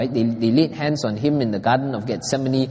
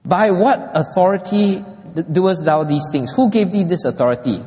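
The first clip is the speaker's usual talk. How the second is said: higher, pointed challenge to Jesus; challenging demand; 4 semitones higher than usual. Retold or imitated. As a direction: press him with the question, a touch raised. Priests challenge Jesus in quote.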